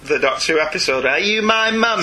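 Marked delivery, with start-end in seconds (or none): 1.0-2.0 put-on creepy child voice. Quoting Doctor Who gas mask child.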